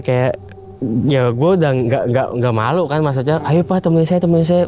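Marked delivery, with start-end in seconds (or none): 3.5-4.7 anxious retold plea. Retold begging for company, scared.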